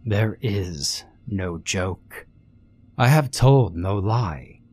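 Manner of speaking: slow, smug villain voice; lightly voiced gloating vampire. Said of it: "he gloated".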